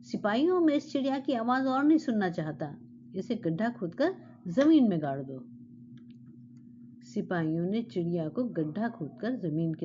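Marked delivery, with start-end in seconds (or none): 0.0-5.4 raised, frantic royal order; angry shout. Acted. Maddened king shouts at guards to bury the bird. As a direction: shout it, past all patience. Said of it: "जोर से चिल्लाकर बोला".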